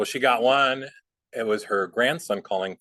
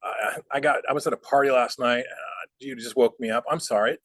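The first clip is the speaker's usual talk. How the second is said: mock groggy phone voice, rising to a high, loud plea at the end; playing sleepy and confused; 5 semitones higher, 3 dB louder than usual. Stalling a scam caller, mock groggy and confused. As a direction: drag it out like you were just woken. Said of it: "wait a while and say".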